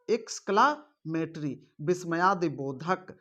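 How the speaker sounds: एक्सक्लामेटरी said slowly, syllable by syllable; slow, careful repeat. Shown as a demonstration. Teacher repeating the term slowly for students. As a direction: stretch out एक्सक्लामेटरी so the class can copy it.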